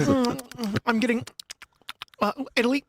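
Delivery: wine sommelier. Retold or imitated. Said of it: "he's like".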